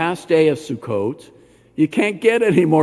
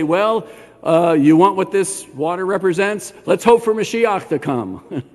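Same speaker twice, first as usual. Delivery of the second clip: mock hedging; 2 semitones higher than usual. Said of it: "Notice Yeshua doesn't say".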